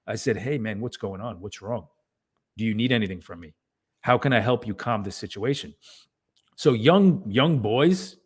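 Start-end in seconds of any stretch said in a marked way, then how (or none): 0.3-5.7 calm reassuring father. Retold or imitated. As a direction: soothe him, don't meet his anger. Father calming upset son.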